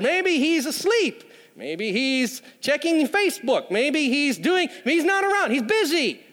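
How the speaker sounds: sarcastic taunting of the rival prophets; mocking. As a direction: tease them with mock concern. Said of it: "Elijah sort of mocks them".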